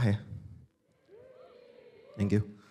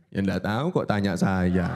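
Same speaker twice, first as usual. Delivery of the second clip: slow, lower mock impersonation; lightly voiced impression; 6 semitones lower than usual. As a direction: drop low and drag it like a famous figure. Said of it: "Balik lagi soal impersonate". (tiruan suara tokoh, pelan dan rendah)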